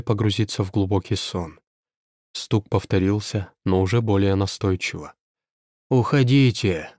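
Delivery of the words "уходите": put-on creaky old woman. A narrator's reading. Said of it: "старый скрипучий голос Розы".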